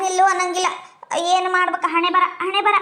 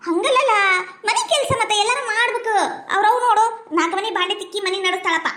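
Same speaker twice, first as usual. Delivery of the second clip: tearful protest. Acted. Mother's tearful protest to son.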